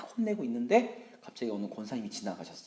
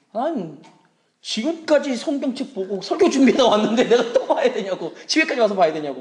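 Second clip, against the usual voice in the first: high, loud exasperated outburst; indignant protest; 10 semitones higher, 14 dB louder than usual. Acted. Husband arguing back to his wife, loud high indignation. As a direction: protest as a worn-out husband, shouting.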